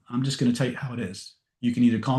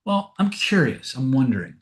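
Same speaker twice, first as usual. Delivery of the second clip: gentle softener; 4 semitones higher than usual. Shown as a demonstration. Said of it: "when I do things like".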